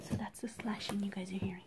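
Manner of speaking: hushed whisper so nobody wakes. Real, not acted. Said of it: "I'm whispering 'cause people is asleep".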